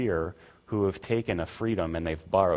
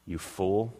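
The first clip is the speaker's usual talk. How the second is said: scornful judgment. Retold or imitated. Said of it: "judges them, saying".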